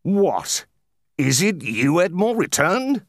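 high, far-carrying hint of a Marseillaise accent; lightly voiced broad Marseillaise greeting. A narrator's reading. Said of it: "with a broad Marseillaise accent".

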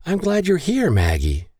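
high-pitched, welcoming; high, friendly hello; warm greeting. A narrator's reading. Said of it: "Catherine warmly greeted".

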